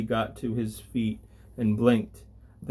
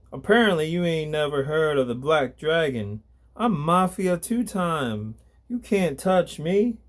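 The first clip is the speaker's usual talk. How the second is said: boasting thug; 5 semitones higher than usual. Acted.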